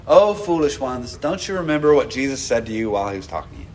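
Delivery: rushed, dismissive mock rebuke; fast mock version. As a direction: rattle it off fast and soft. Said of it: "He doesn't go".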